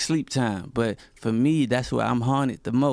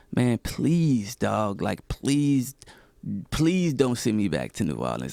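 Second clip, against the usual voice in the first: mock, desperate, swooping pleading voice. Recalling a talk with one of the people they stayed with, retelling their own begging. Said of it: "I remember begging".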